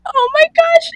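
high, loud, laughing through the words; laugh-crying. Real, not acted. Woman recalling an awkward ride home, laughing hard. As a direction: crack up while telling it.

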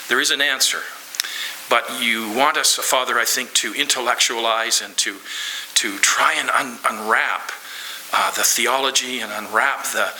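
earnest, steady prayer voice; closing prayer. Acted. Pastor leading the congregation in closing prayer. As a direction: pray it sincerely on behalf of all.

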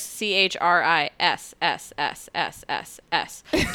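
drawn-out s like a snake; "S S S S S S S S" strung out slowly; spelled with drawn-out S's. Shown as a demonstration. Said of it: "six S's".

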